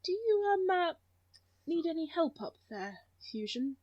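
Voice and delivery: soft, hesitant offer of help; calm, considerate. Acted. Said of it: "calm and considerate voice of a song".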